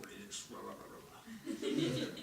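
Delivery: low, hushed grumble under the breath; mumbling to oneself. Acted. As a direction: mumble it privately, very softly. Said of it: "just kinda mumble to yourself".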